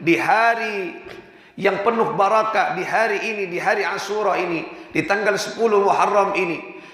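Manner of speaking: high, earnest plea to the judge; pleading poor man. Acted. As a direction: beg humbly but with hope. (memohon dengan suara tinggi)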